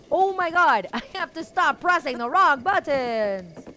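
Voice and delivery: loud laughing wail; laughing frustration. Real, not acted. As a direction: laugh at your own mistake.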